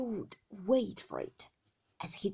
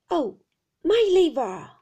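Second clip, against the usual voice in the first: loud, high wail; fierce old shopkeeper howling; old man's cry; 7 semitones higher, 12 dB louder than usual. A narrator's reading. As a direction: cry out in a swooping, anguished whine. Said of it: "cried the old man".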